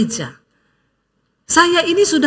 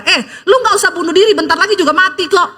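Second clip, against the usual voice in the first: joking retort; faster than usual. Retold or imitated. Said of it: "Ibu ngomong begini".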